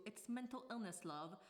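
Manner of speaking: a hint of a badly faked British accent; lightly put-on, unconvincing British accent; terrible British accent. Vlogger reads out a joke tier name, in a bad British accent. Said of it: "That was a terrible British accent".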